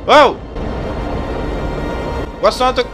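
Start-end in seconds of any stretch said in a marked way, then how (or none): 0.1-0.4 surprised gasp. Real, not acted. Watching the astronaut die.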